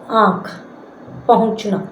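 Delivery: आँख and पहुँचना with air through nose and mouth; nasalised vowels. Shown as a demonstration. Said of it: "नाक और मुंह दोनों से हवा निकलती है". (आँख, पहुँचना में अनुनासिक उच्चारण)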